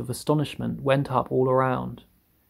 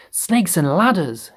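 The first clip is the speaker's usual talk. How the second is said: high, slow, drawn-out exclamation; fire chief's yell; 6 semitones higher, 4 dB louder, slower than usual. A narrator's reading. Fire chief sees Miss Spider, yelling. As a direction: stretch the startled oath. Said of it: "yelled the head of the fire department".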